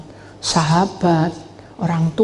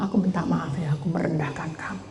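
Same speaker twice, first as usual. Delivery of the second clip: soft apology; 10 dB quieter than usual. Retold or imitated. Friend apologizes and embraces.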